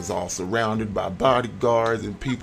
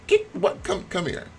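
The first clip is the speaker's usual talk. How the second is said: sharp call; 9 semitones higher than usual. Acted. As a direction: snap it like a mom. Mother calling, pitch jump.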